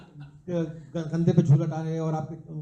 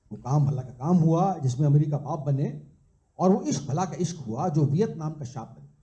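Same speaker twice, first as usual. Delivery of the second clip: measured, rhythmic verse with a lilting refrain; live poetry recital; poem recitation; 3 semitones lower than usual. Acted. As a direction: recite it as a couplet, landing on each rhyme.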